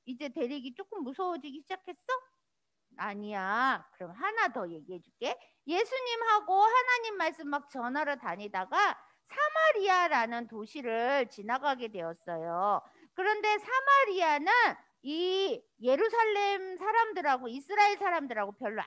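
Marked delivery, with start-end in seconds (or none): none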